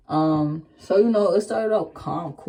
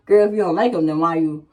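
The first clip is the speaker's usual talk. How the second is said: a light mock of a sassy commenter, a bit louder; tossing off a half-hearted sassy comeback; 5 dB louder, faster than usual. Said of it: "they would be in the comments like".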